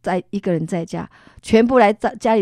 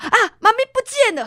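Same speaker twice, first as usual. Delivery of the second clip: high, fast excited cry; excited child; 14 semitones higher, 7 dB louder, faster than usual. Retold or imitated. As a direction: burst out with relief. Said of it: "看到".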